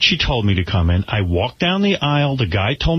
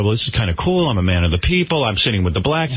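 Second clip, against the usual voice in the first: lower, self-soothing voice; calming himself down; 6 semitones lower than usual. Retold or imitated. Man consoling himself in the back row, calming down. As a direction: talk yourself down in a low pitch. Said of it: "trying to calm myself down".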